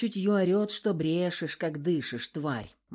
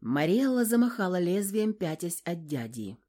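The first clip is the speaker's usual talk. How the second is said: ordinary talk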